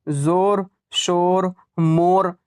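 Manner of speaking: जोर, शोर, मोर with an o not stretched much; moderately short vowel. Shown as a demonstration. Teacher showing waw majhool, जोर, शोर, मोर barely drawn out. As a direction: keep the o in जोर only lightly held. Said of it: "बहुत ज़्यादा खींच कर नहीं".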